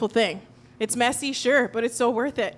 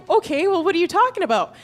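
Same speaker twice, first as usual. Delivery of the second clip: mock puzzled; 7 semitones higher, 4 dB louder than usual. Puzzled reply to serious child.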